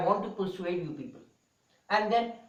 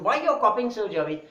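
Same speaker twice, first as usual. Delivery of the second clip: raised voice, imitating a scolding principal; mild retold shout; 5 dB louder than usual. Principal shouting at a student for copying, mild retold shout. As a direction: retell the scolding a bit louder. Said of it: "he was shouting at one student".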